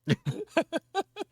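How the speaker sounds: high-pitched burst of laughter. Real, not acted. Laughing after the story.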